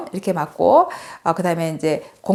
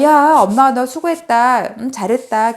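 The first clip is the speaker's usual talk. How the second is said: positive praise; 4 semitones higher, 3 dB louder than usual. Retold or imitated. Mother insisting she praised her daughter, retold positive praise. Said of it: "긍정적으로 얘기를 했는데".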